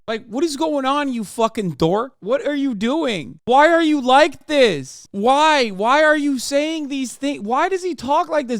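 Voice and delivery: high, loud disbelieving yells; real exasperated ranting; exasperated shout. Real, not acted. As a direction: yell at him in disbelief. Streamer exasperated at clip.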